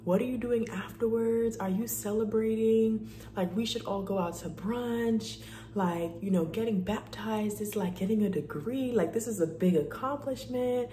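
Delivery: imitating the ladies' high, thrilled gushing; gushing ladies. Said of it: "and they were like".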